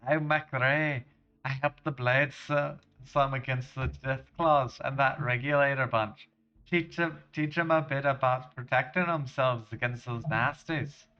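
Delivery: hearty generic Scottish lad-speak; terrible Scottish accent. Acted. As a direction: put on a bad Scottish accent. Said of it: "accent for this random character".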